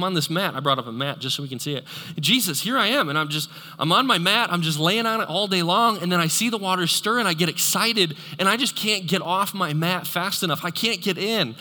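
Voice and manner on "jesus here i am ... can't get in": higher, louder, pleading complaint; a hammed-up self-pitying lament; whiny invalid. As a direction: plead like a stuck, helpless man. Preacher acting out man on mat.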